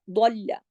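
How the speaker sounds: दल्ला with a firmly joined double ल; firm doubled L. Shown as a demonstration. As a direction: press the ल twice in दल्ला. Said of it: "सख्ती से जोड़ना है". (दल्ला में ल सख्ती से जोड़कर)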